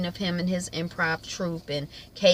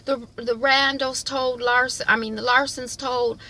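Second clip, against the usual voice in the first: tag; 7 semitones higher than usual. Retold or imitated. Upset wife pleads with absent husband.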